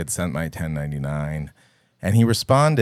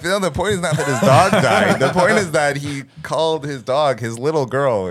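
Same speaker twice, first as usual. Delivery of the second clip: retold exasperated protest; 7 semitones higher, 5 dB louder than usual. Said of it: "And I'm like".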